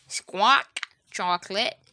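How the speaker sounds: loud squawk then parroted word. Acted. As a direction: parrot squawking the order back. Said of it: "Polly repeats".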